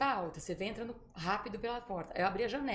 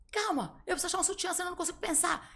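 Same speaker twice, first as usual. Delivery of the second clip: higher-pitched flustered insistence; frantic plea; 10 semitones higher, 4 dB louder than usual. Retold or imitated. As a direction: beg for one more minute. Panicked friend wants a bra.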